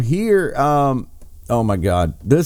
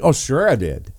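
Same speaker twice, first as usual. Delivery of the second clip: dry sarcastic shrug; offhand sarcastic brush-off. Retold or imitated. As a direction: toss it off sarcastically. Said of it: "with sarcasm".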